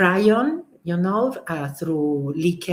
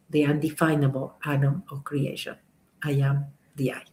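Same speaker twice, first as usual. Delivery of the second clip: solemn recitation; 3 semitones lower than usual. Acted. Recites the I am affirmation.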